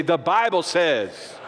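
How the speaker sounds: slow declaration with some sass; sauce in the attitude. Shown as a demonstration. Preacher leading everybody to say it, slow and sassy. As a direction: put a little sauce on it, drawn out. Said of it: "say it with a little sauce in your attitude".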